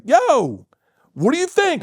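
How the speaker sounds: high, loud, hyped "Yo, Bert"; Will Smith greeting. Retold or imitated. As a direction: call out across the room like a showman. Will Smith asking retold.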